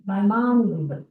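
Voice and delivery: "My mom Mizzy" with "mom" closed on an M; Brooklyn pronunciation. Shown as a demonstration. Committee member shows the local habit, Brooklyn pronunciation. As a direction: stress "mom" in "My mom Mizzy", ending it on M. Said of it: "it's a real Brooklyn thing to say".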